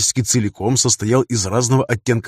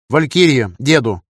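raised call sign over a radio; 3 semitones higher, 4 dB louder, slower than usual. Acted. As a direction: hail someone on the radio.

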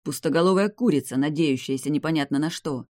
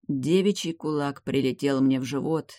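usual speaking voice

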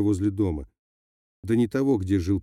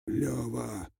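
a hoarse, much softer cry for help, breath failing; hoarse shout; 3 semitones higher, 9 dB quieter than usual. A narrator's reading. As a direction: call out with no breath left. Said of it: "сипло крикнул".

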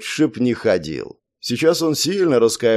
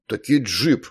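weighty; slower than usual. A narrator's reading. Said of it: "внушительно произнёс".

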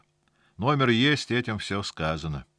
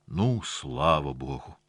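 hoarse; 3 semitones lower, slower than usual. Acted. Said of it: "хрипло закашлялся дядя Костя".

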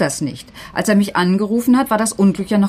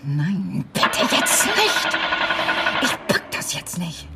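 despairing plea; 4 dB quieter, slower than usual. Acted. Teacher alone, desperate.

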